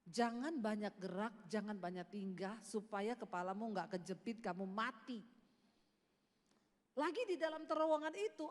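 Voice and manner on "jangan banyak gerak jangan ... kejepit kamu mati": lower, lightly voiced warning voice; a hint of a solemn voice from the vision. A voice in the tunnel warning him to keep still, lower. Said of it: "ada suara yang bilang begini".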